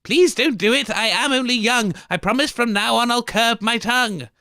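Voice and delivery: hammed-up plea for mercy; Molly begging. Molly begs for her life.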